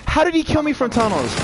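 furious disbelief at the screen; raging gamer. Real, not acted. Killed unexpectedly in match.

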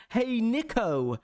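put-on high, slow posh-boy accent; imitated posh accent. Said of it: "that's the accent of the people".

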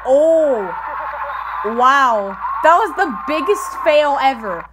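loud amazed outburst; excited shout. Real, not acted. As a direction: burst out at the fail. Reacting to a soccer fail.

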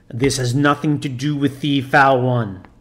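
growled. Acted. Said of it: "growled the fiend".

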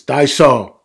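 put-on loud little-kid exclamation; small child's favorite word, belted; George's toddler voice. A narrator's reading. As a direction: call it out like an eager toddler. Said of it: "George, of course, says".

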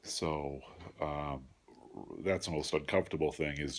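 stuffed-up nose after surgery; blocked nose. Real, not acted. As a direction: talk through a packed nose. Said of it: "just feeling so congested".

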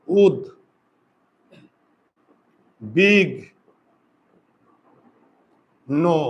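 উদ, বিগ, নো with long pauses between the pieces; উদ, বিগ, নো spelled out slowly by sound; syllable by syllable. Shown as a demonstration. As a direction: dictate উদ... বিগ... নো, ending on a closed o. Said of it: "উচ্চারণটা কি হবে দেখো তো".

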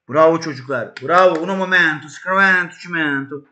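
loud, high cod Italian cheering; hammed-up Italian bravo chant; mock Italian praise. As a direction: cheer the team in fake Italian.

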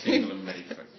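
laughing, high and loud. Real, not acted. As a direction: repeat it through laughter. Echo of ad line laughing.

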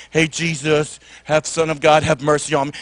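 low, timid half-voice; soft. Shown as a demonstration. Mock blind man calling Jesus meekly, soft and low. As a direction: say it softly, far too meekly. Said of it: "not soft, like".

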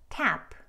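tap, strongly aspirated first sound; strong initial t. Shown as a demonstration. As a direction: tap with a forceful, airy t at the start. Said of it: "트가 첫 소리일 때는 강하게".

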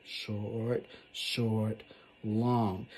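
"Short, short, long." beaten out, two quick then one held; short short long rhythm. Shown as a demonstration. Teacher demonstrating anapest rhythm to the class. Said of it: "Here's a really long one".

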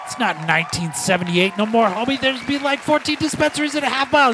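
high, exasperated retelling; retold outrage. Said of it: "I said".

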